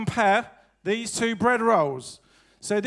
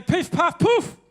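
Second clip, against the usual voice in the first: magic word; 7 semitones higher, slower than usual. Shown as a demonstration. Comedian shows kids the magic word, called out high. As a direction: call out the spell for the kids.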